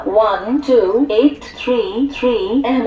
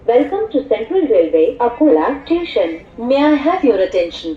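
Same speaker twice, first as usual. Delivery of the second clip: muffled railway station announcement. Acted. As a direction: announce the train over the platform speakers.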